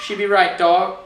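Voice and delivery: "Yo, dog", hammed-up street slang; mock American slang. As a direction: play a dorky American dude. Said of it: "You're so dorky".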